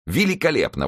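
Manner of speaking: mock-admiring outburst; sarcastic exclamation. A narrator's reading. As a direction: exclaim it with bitter irony. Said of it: "воскликнул Д'Артаньян".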